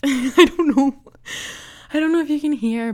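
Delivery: breathless laughing. Real, not acted. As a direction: laugh through the words. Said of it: "I just ran up the stairs".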